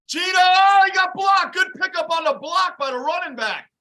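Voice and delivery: high, loud live play call; real excitement over the block; excited shout. Real, not acted. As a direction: call the blitz pickup as it happens. Live reaction to a blitz.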